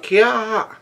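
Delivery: mock yell in a high voice; high fangirl squeal. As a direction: squeal it high, like an onlooker in the crowd. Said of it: "someone's yelling out".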